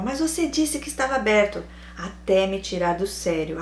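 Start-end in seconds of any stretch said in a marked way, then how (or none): 0.0-1.6 higher-pitched mock protest; insistent. Boyfriend needling her about the open market, mock insistent. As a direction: imitate stubbornly pressing the same point. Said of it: "E ele afirmava".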